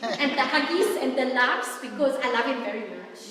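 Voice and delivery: eager, loud, laughing delight; excited gush. Retold or imitated. Wife hearing her husband home, gushing loud with excitement. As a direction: burst out gleefully, like a wife rushing to greet her husband. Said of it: "and I'm like".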